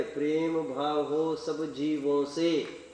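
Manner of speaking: slow, drawn-out mockery of the lisped line with प्रेम said clearly; slow sneering echo of the child's line; mock lisped recital. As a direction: stretch each word to mock the recitation. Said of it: "वो भी ऐसे ही आवाज में".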